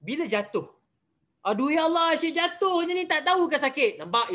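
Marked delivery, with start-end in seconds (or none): 1.5-4.0 impatient complaint. Shown as a demonstration. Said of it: "Itu tak sabar".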